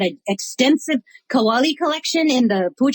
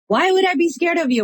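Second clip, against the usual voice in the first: higher-pitched teasing retort; retold mock disbelief, pitched up; incredulous scoff; 6 semitones higher than usual. Chaplain teasing her tiny imam friend, incredulous.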